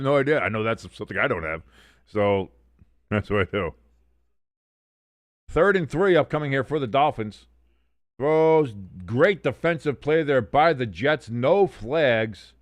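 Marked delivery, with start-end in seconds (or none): 5.5-12.5 raised, punchy football call; play-by-play. Real, not acted. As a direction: call the play live for the viewers. Live play-by-play of game.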